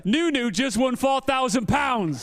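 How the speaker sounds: slow, drawn-out announcement of the win; excited announcement. Real, not acted. Interviewer announcing the winner to viewers, slow and excited. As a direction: call it out big and slow for the crowd.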